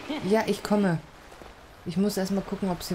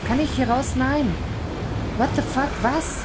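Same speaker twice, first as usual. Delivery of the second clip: high, loud frantic pleading; panicked; 6 semitones higher, 3 dB louder than usual. Real, not acted. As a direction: panic to get out, voice climbing high. Trapped, panicking in game.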